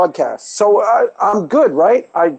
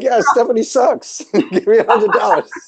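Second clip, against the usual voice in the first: mock hired critic; 8 semitones higher than usual. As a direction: sneer like a paid hack. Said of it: "Be like".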